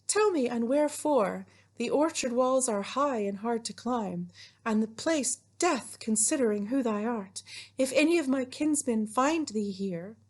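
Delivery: high maiden voice, urging caution; Juliet. Acted. Teacher playing Juliet warning Romeo of her kinsmen, high voice. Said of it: "my best Juliet voice".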